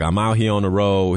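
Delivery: lightly imitated Southern accent. Man filming himself alone in a hotel room, light Southern accent. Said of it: "his Southern accent".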